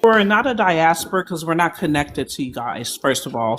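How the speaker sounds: talking through a mouthful of food; words around a bite; mouth full. Real, not acted. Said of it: "Sorry, I got food in my mouth".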